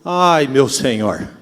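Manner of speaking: long, low, drawn-out lament; slow acted groan of woe, falling in pitch; crying out in anguish. Man struck by tragedy cries to his Lord, anguished. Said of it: "vai gritar como ele gritou".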